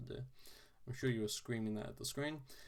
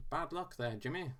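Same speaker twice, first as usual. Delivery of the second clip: put-on lightly posh English accent; a hint of a posh quiz host; 3 semitones higher than usual. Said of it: "I wanna put on, like, a posh voice".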